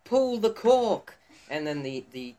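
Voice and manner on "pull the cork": high, loud and drawn-out yell; slow yell. Acted. Telling a joke, the Scotsman yells to the monkey slowly. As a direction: stretch the shout out slowly. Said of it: "the Scotsman hears it and says".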